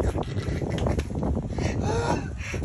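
high, wheezing laugh; long high laugh. Real, not acted. Laughing over twanging his wife, long high laugh.

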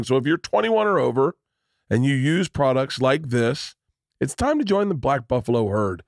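upbeat host-read sponsor spot; lively, conversational advertisement delivery; podcast ad read. Acted. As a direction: pitch it to listeners with punched phrases. Reads a sponsor ad.

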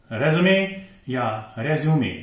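रेज्यूमे as REZ-uh-may or REZ-yoo-may; correct pronunciation. Shown as a demonstration. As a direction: give रेज्यूमे three syllables ending in "may". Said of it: "बल्कि रेज्यूमे". (सही उच्चारण, अंत में मे वाला रेज्यूमे)

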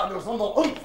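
usual speaking voice

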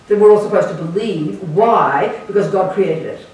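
loud, emphatic sarcasm; sarcastic. Real, not acted. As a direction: hit it hard, mocking the dogma. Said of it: "I'm being sarcastic here".

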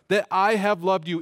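"I" leaned on in "I have loved you"; stress on I. Shown as a demonstration. Preacher pointing out the Greek, stress on "I". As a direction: make "I" the emphatic word. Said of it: "the I is emphatic".

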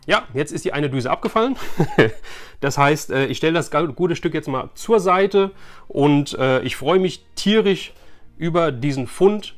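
normal talking voice

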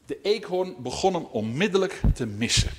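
measured storytelling, phrase by phrase; read-aloud tale opening; story narration. A narrator's reading. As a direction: tell it to children with pauses. Reads a story to children.

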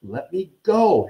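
high, drawn-out protest; slow, rising angry plea; snarled demand. A narrator's reading. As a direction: demand release, stretching the last word. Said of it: "Harry snarled".

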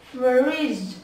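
"Fridge" drawn out, every sound separate and clear; đọc chậm. Shown as a demonstration. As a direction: stretch "Fridge" slowly through to its ending. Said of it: "Nói nhanh". (đọc "Fridge" chậm, rõ từng âm)

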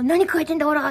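軽く声を張った怒りの再現; 怒って問い詰める人を真似て; 怒って怒鳴る真似. Acted. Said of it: "め��ちゃ怒るよ". (怒鳴り込み風)

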